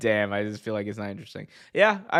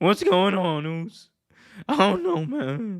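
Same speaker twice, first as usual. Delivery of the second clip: high, drawn-out, whiny, complaining voice; 8 semitones higher than usual. Mocking a wrestler's promos as whiny: imitating whiny promo voice. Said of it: "he's kinda, like, whiny".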